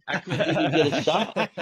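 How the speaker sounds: laughing through the words; high, laughing rueful line. Real, not acted. Laughs at own bad luck.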